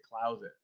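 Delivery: "Closet" as klowz-it, low and soft; Missouri-style "Closet", klowz-it; Missouri pronunciation. Shown as a demonstration. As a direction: say "Closet" with an ow vowel. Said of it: "They say".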